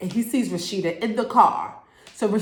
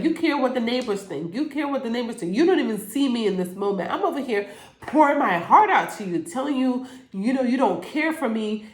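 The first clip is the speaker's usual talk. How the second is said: hurt wife; 4 semitones higher, faster than usual. Retold or imitated. Wife confronting distracted husband.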